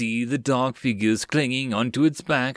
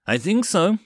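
higher, louder answering shout; shouted reply; yelled back; 7 semitones higher, 4 dB louder than usual. A narrator's reading. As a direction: call back across the wind. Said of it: "someone yelled back".

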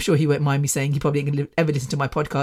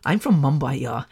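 put-on lilting, lower Mumbai accent; singsong Indian accent; 4 semitones lower, 4 dB quieter than usual. The nice kind of accent, singsong Indian. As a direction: sing it gently in a Mumbai lilt. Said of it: "but a nice singing kind of".

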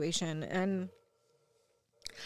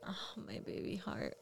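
soft whispered tenderness; hushed loving whisper; 12 dB quieter than usual. Retold or imitated. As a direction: whisper it over a sleeping child. Tender words to sleepy child.

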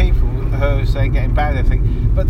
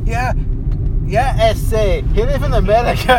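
mock Mexican accent; 4 semitones higher than usual. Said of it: "that's my Mexican".

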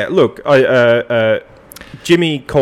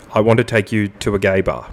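song lyrics read like a formal statement; deadpan lyric recital. Acted. Host solemnly reading lyrics as a legal statement, deadpan.

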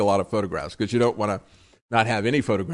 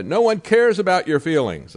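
mock a passenger's yell, higher and louder; retold yelling; 8 semitones higher, 6 dB louder than usual. Passengers yelling at a maskless woman, mock yell. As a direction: raise pitch and volume as if telling someone off. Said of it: "they start yelling at her".

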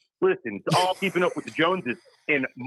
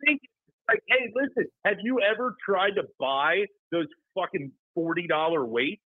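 higher-pitched, exasperated rant; pissed off; 4 semitones higher than usual. Real, not acted. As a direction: rant as if you're fed up. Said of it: "Drew, why do you sound pissed?".

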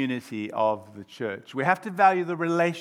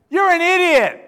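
loud, high name-calling; shouted insult; 10 dB louder than usual. Acted. Friend abusing friend over a colour, angry shout. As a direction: yell it in a hammed-up quarrel. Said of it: "abusing each other, calling each other names".

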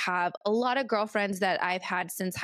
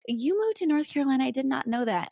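quick, higher-pitched mock astonishment; imitated surprise; 4 semitones higher, faster than usual. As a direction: act out a friend caught off guard. Imitates friend's surprised reaction.

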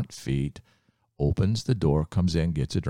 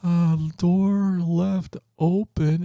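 worried thought; 12 semitones higher, 3 dB louder, slower than usual. Retold or imitated. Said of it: "he was thinking".

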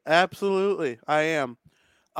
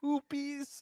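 amused disbelief; 11 semitones higher, slower than usual. Real, not acted. Repeating the silly dish name.

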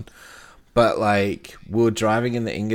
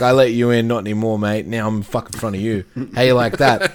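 louder, cocky taunt at another driver; mock road-rage taunt; 5 dB louder than usual. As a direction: crow at the driver you've just cut off.

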